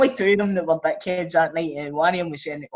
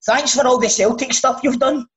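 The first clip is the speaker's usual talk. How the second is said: laughing imitation; 6 semitones higher, 4 dB louder than usual. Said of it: "he went like that".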